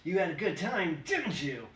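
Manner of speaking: a mob of cops yelling in triumph; gloating cops. Acted. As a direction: shout it down at him, gloating. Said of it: "gloating, righteous exclamations".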